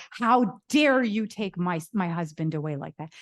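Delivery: storyteller voicing the wife's outraged confrontation; retold fury. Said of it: "She is furious".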